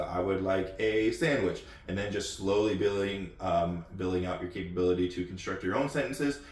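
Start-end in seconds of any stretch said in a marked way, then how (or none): 0.0-1.6 slow, even teaching demo; patient language-lesson delivery; slow example sentence. Shown as a demonstration. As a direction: model it slowly like a tutor.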